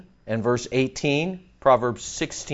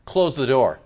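boss calling you in; 5 semitones higher, faster than usual. Retold or imitated. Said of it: "That's the feel right there".

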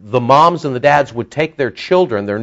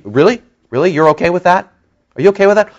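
incredulous; 6 semitones higher, faster than usual. Real, not acted. Challenging congregation in disbelief.

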